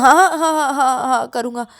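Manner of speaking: high burst of yeses, settling down; eager agreement. Acted. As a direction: agree frantically before they change their mind. Ravi agrees desperately. (हड़बड़ी में बार-बार हामी)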